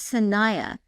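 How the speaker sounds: Sanaya said slowly as sa-NAI-ya, stress on the middle; "Sanaya" spelled out as sə-NAI-ə, falling at the end; saying Sanaya. Shown as a demonstration. Host repeating the name from the license plate, pronouncing Sanaya carefully. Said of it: "that's how he said it out loud".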